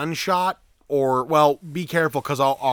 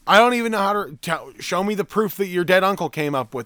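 exasperated demand; 7 semitones higher, 5 dB louder than usual. Retold or imitated. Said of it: "I'll be like".

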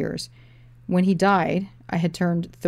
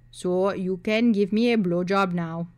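flat; slower than usual. Acted. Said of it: "he said flatly".

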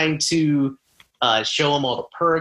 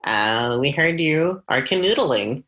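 phone voice. Pretend. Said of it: "I'm just giving you my phone voice".

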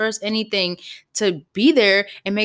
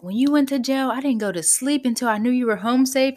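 higher-pitched retold reproach; imitating accusing boyfriend; 6 semitones higher than usual. Boyfriend reminding her he stayed up when she was jailed, accusing. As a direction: throw it in her face, mock indignant. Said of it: "he threw that in my face".

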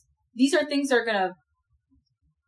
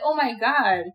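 appalled; 4 semitones higher, slower than usual. Retold or imitated. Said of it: "I'm gonna figure out that".

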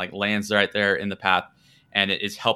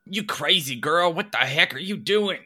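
indignant thug; 8 semitones higher than usual. Acted. Thief knocked over by the flung girl, high indignant voice. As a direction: sputter it at her, knocked flat and baffled. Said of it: "one of them turns and goes".

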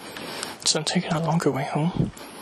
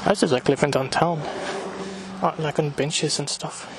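panting between phrases; winded from walking uphill; out of breath. Real, not acted. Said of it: "I might sound like I'm out of breath".

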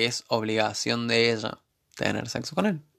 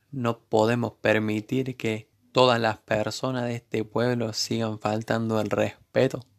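slow, overdone Caribbean TV-court accent, imitating the actress; mock the Caso Cerrado show's dropped-s accent, slowly; lightly imitated Caribbean accent swallowing the s. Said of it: "Ese acento de caso cerrado".

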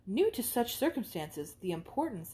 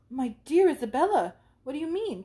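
higher, startled questioning; a touch of disbelief; astonished friend; 6 semitones higher, 6 dB louder than usual. Acted. Catherine astonished.

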